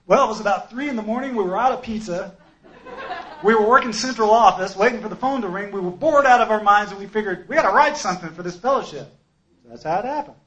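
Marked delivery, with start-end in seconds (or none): 0.1-9.1 imitating Bruce. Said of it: "he's like".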